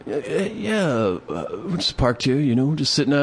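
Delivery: high, stumbling voice of a caught squatter; stammering drunk guy. Retold or imitated. Homeless guy caught on truck.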